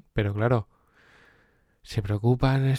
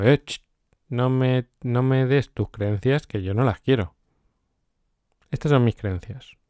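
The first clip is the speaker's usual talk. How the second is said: defiant retort; 3 semitones higher, 4 dB louder than usual. Retold or imitated. Brushing off María's warnings, loud defiant retort. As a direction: push her worries away, cheeky and loud.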